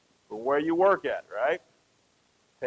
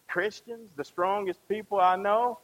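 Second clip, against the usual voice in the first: sceptical echo. Acted. Echoes a sceptic questioning his claim.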